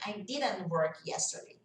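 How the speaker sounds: "didn't" as "didn", the T vanishing before "work"; dropped final T. Shown as a demonstration. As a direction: say "didn't" without releasing its T. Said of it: "esse T vai sumir".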